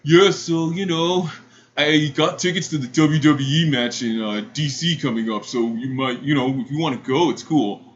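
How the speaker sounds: cringey would-be charmer; cringiest voice. Retold or imitated. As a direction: imitate an awkward guy asking someone out. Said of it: "in the most cringiest voice".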